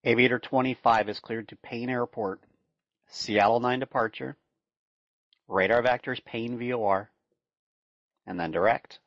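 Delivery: steady radio clearance readout; air traffic control. Acted. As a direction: read it like a tower controller.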